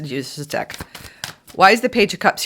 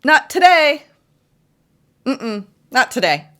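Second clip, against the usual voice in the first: sassy refusal; 5 semitones higher than usual. Acted. Voicing refusing partner.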